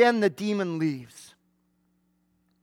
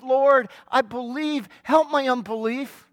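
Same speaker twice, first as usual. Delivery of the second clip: earnest cry; 3 semitones higher, 4 dB louder than usual. Retold or imitated. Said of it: "When the best you can say is".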